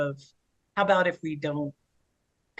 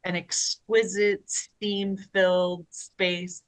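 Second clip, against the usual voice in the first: slow, savoring each word; dreamy; much slower than usual. Shown as a demonstration. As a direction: linger on it lovingly. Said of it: "now I'll describe it as it actually is".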